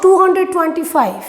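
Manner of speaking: "टू हंड्रेड ट्वेंटी फ़ाइव" as a whole number; the wrong way, read as two hundred twenty-five; wrong reading shown. Shown as a demonstration. ("टू हंड्रेड ट्वेंटी फ़ाइव" गलत तरीका)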